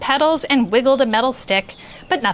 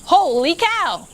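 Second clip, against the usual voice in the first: thought, same words; 7 semitones higher, slower than usual. A narrator's reading. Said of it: "Manny usually said exactly".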